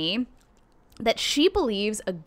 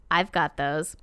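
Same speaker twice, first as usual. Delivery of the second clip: raspy voice; 5 semitones lower than usual. Retold or imitated. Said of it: "He says in a raspy voice".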